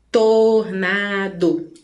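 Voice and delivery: TORNADO slowly as tor, na, do; split into syllables. Shown as a demonstration. Teacher showing why we divide, tornado split slowly. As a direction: stretch tornado into three beats, tor, na, do. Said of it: "por isso a gente divide".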